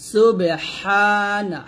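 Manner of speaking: সুবহানা with the হা pressed hard; stressed হা. Shown as a demonstration. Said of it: "চাপ দিয়ে".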